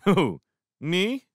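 high-pitched innocent question; friendly innocence. A narrator's reading. Lewis answering Foss's accusation, with friendly innocence. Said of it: "asked Lewis with friendly innocence".

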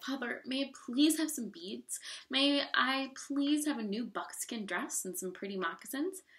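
gently imploring daughter; polite pleading. Acted. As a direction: ask father sweetly and earnestly. Girl politely begs father for gifts.

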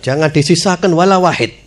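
chuckling, mock order to wipe them out; a laughing, lightly acted call for revenge; mock vengeful, half laughing. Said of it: "Kalau kita digitukan". (balas dendam pura-pura sambil tertawa)

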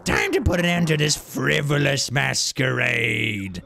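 slow, strained villain voice; theatrical villain proclamation; hammed-up boss. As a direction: draw out the threat like a cartoon boss.

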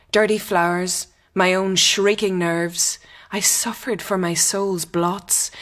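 measured, solemn recital of a poem; reading poetry aloud. Acted. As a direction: read the poem as if it matters.

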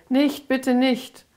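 slow, high frightened begging; pleading. Acted. Little Lucy in the cellar begs, high and frightened. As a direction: beg like a scared little child. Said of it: "Wie sie sich sträubte und bettelte".

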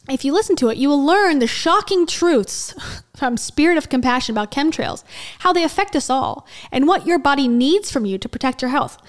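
emphatic mock-guru read; over-enunciated reading. Reading out a podcast blurb on shocking truths, over-enunciated. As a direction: lean on the key words with a swooping tune. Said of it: "He speaks like this and tries to enunciate".

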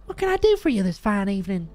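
very high-pitched folksy country voice; folksy resident. Acted. Folksy resident greeting officer at the door, high and welcoming.

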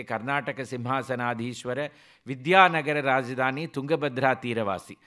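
reciting a Sanskrit title; demonstrated Pravaram reading. Shown as a demonstration. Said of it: "This is how they will start reading the Pravaram".

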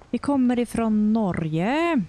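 put-on slow, sing-song Swedish accent. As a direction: speak it like a Swede. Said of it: "That's just a Swedish accent".

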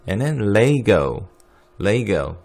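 Lego as leigo, slow on the first; American Lego. Shown as a demonstration. 수업에서 레고 발음 시범. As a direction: Lego with a long ei. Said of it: "Lego, 이렇게요".

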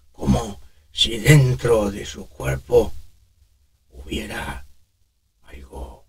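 put-on slow, soft, rasping old man; raspy smoker voice. Shown as a demonstration. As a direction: breathe it out rough.

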